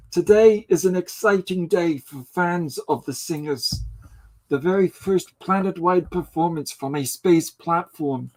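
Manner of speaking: lightly voiced Herzog-style documentary narrator; deadpan grave narration, only a hint of Herzog; mock-solemn news narrator, voice close to own; Werner Herzog impression. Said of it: "anything should be read in Werner Herzog".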